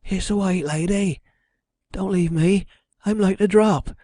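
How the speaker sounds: high-pitched frightened woman; terrified cry. A narrator's reading. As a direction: plead in a high voice, scared out of your wits. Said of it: "she cried".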